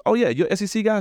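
high, delighted imitation of the boss; imitating the boss. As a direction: pitch it up like an excited fan. Boss replies about football.

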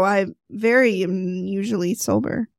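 unconvincing claim of sobriety; low, softish, hesitant assurance that fails to convince. Real, not acted. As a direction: say it without quite convincing anyone. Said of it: "Didn't sound very convincing".

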